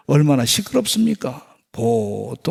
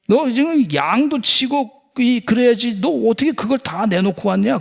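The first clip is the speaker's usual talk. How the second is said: brothers' scolding; 5 semitones higher than usual. Retold or imitated. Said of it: "형들이 그를 비난했어".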